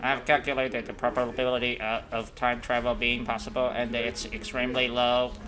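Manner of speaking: level robot tone. Acted. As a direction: state it like a computer. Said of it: "I'll do that robot voice".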